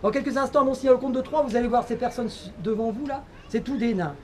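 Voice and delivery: a stage hypnotist's steady suggestion; hypnotist induction. Acted. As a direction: lull them into the trance.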